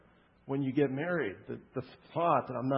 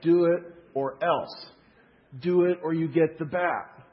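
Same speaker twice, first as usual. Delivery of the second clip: mock threat; 3 semitones higher, 5 dB louder than usual. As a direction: lay down a mock threat, word by word. Voices God as a threatening enforcer.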